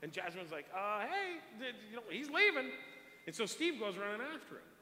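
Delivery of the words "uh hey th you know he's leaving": high, louder calling out; retold urgent alert.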